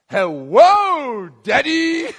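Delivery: put-on high, loud, excited little kid voice; a small son greeting his daddy with delight; toddler saying hello. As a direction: squeal it like a toddler an inch from Dad's face. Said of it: "and he goes".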